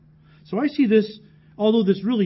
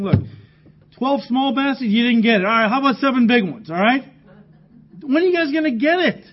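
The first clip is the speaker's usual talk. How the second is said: rising exasperation, climbing high at the end; lightly voiced teacher losing patience; exasperated Jesus; 4 semitones higher, 3 dB louder than usual. Preacher voices Jesus scolding disciples.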